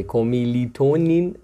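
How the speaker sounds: کومیلیتونین drawn out slowly, each syllable placed; careful teacher's model of a tricky word; slow, careful pronunciation. Shown as a demonstration. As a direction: say it slowly so the tongue doesn't catch.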